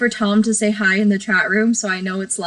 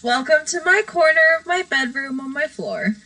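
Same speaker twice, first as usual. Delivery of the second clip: mock streamer welcome, a little higher; streamer intro; 4 semitones higher than usual. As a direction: give a playful show-host intro. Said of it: "an intro like normal streamers".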